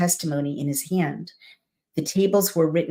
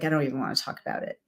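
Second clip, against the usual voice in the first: hurt brush-off; 3 semitones lower, 6 dB quieter, much faster than usual. Retold or imitated. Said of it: "God is heartbroken".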